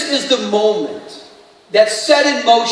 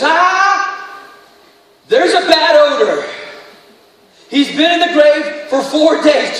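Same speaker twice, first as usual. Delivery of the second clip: raised, higher voice of a complaining Martha; Martha's protest; 5 semitones higher, 3 dB louder, slower than usual. Acted. Pastor voicing Martha's protest at the tomb, higher and louder. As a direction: push back, higher and louder, on Jesus.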